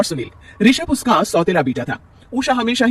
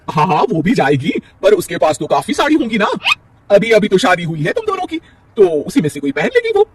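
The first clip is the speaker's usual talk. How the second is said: dismissive mother-in-law; 5 semitones higher, 4 dB louder than usual. Acted. Mother-in-law brushes off son.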